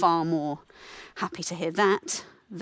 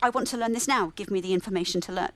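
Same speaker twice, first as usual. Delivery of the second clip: impatient demand; 3 semitones higher than usual. Retold or imitated. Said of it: "And I just thought".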